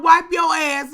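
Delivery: high shouted command; hollering. Retold or imitated. Auntie hollering at the cousin, high shouted command. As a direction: holler it loud. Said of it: "She's hollering".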